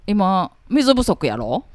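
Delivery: a lightly voiced Kansai uncle asking; slow, mild Kansai uncle. Asked to voice a Kansai uncle, a touch of Kansai uncle. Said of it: "おじさん関西弁".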